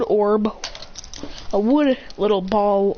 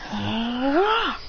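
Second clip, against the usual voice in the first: drawn-out rising "ah"; acted power-up groan; straining effort cry; 3 semitones higher than usual. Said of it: "putting the lightning chakra in his hand, going".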